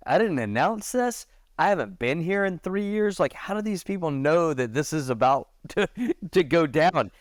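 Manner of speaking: high-pitched puzzled protest, acted out; baffled. Host retells being puzzled by the gathering crowd, baffled.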